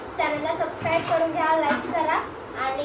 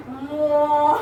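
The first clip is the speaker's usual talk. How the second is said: slow lowing buffalo; 5 dB louder than usual. Shown as a demonstration. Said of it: "म्हशीचा आवाज काढायचा".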